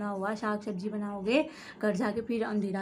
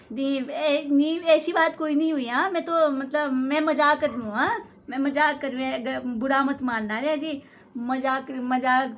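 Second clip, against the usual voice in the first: higher, louder, hurried denial; flustered protest; 4 semitones higher, 5 dB louder than usual. Acted. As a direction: backpedal fast, voice jumping up.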